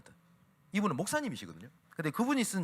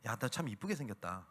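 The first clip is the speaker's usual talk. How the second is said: much softer, a private murmur of praise; soft secret compliment; 4 semitones lower, 7 dB quieter than usual. Retold or imitated. Pastor softly telling the lonely girl she's pretty, hushed. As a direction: say it quietly so only she hears. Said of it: "속삭이는 얘기했대".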